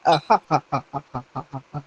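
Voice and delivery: imitating his low chuckle, fading away; a lazy imitated laugh that dies off quietly; mock laugh. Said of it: "And he starts laughing".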